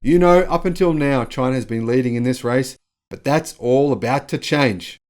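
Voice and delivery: mock-presidential rallying line, slowing at the end; Joe Biden. Host quoting the president on the race with China, mock-oratorical. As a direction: lightly imitate a politician promising a turnaround. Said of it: "amplified by U S President Joe Biden".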